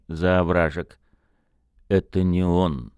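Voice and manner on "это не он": slow, hollow sepulchral tone; grim reaper voice. Acted. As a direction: speak like a voice from the grave. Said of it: "глухо произнёс Сергей Арсентьевич".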